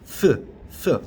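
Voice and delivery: two short voiceless th sounds; th, th, as separate puffs. Shown as a demonstration. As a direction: demonstrate th by blowing air past the tongue. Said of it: "이렇게".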